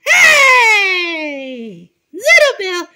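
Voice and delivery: loud stern call of his name; angry shout. Pretend. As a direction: bark it to stop him. Teacher angry at defiance.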